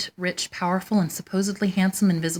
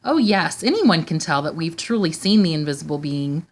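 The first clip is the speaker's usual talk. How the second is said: insisting; 3 semitones higher than usual. Acted. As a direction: press the point hard. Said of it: "they insisted".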